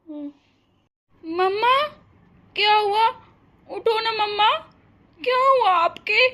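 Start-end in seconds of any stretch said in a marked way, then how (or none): 1.2-6.3 panicked calling. Acted. Girl finds mother collapsed.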